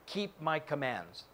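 slow, soft answer; lightly voiced Jesus, calm; understated holy voice; slow solemn Jesus.

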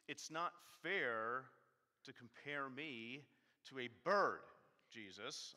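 slow, loud, half-playful protest to Jesus; mock anger. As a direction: lean into a hammed-up indignation. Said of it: "I'm sorry I'm getting angry".

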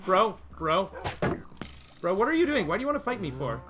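high whiny indignant complaining. Real, not acted. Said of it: "scolding mob over his dog".

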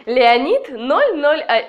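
stumbling over the words; tongue tangling on numbers; tongue-tied. Real, not acted. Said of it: "у меня язык заплетается".

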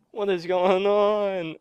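slow, drawn-out bewilderment; bewildered groan. Real, not acted. Gamer overwhelmed by chaos, bewildered slow groan. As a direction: drag it out, dumbfounded. Overwhelmed after being swarmed.

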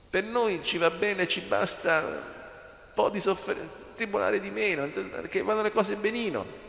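voce più acuta, da chi si accontenta; finto accontentarsi. Acted. Voices the congregation's modest wishes. (tono di chi si accontenta)

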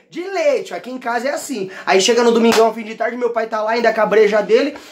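usual speaking voice

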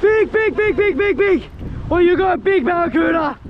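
high, rapid-fire excited repetition; excited calling out. Real, not acted. Angler telling a mate he has a big barracuda, excited. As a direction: keep hammering the word, thrilled and high-pitched.

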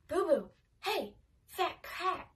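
put-on slow, lightly croaky old witch. A narrator's reading. Old neighbour sneaking up on the girl, slow croak. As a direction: drawl it slowly like a creaky old neighbour. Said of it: "called a croaky voice".

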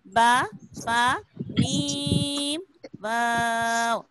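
drawn-out Arabic lip letters. Shown as a demonstration. Teacher to children, slow drawn-out lip letters. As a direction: sound out बा, फा, मीम, वाव slowly, one by one. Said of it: "हुरूफ़े शफविया सबसे पहले दिए हुए हैं".

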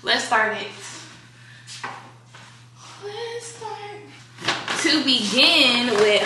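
talking with a retainer in; words slurred around a retainer; wearing a retainer. Real, not acted. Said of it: "but I have my retainer in".

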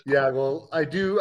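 normal talking voice

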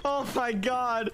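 hyped gamer bro. Real, not acted. Celebrating the kill.

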